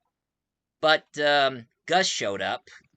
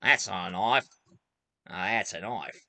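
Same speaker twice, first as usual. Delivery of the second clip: a lightly imitated, lower-pitched movie hero; Crocodile Dundee; 4 semitones lower than usual. Dundee facing hoodlums with knives, lightly imitated. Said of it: "and he said".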